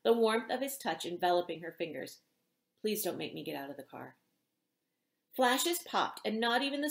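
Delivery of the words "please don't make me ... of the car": lower, softer desperate plea. A narrator's reading. Star begs the girl to let him stay, soft and desperate. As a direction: beg her quietly not to send him out. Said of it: "desperation coloring his words".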